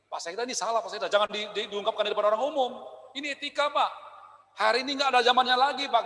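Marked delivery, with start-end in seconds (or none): 0.1-3.9 polite private correction. Retold or imitated. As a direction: gently point out the mistake, no edge. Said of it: "Bu, ada etikanya".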